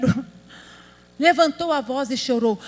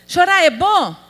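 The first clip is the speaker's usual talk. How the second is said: "Chorar é bom?" called out louder and higher; louder question; 5 semitones higher, 6 dB louder than usual. Shown as a demonstration. Preacher prompting the sisters to answer "Chorar é bom?" loudly. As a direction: ask the congregation "Chorar é bom?" boldly. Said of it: "Fala que é, ajuda".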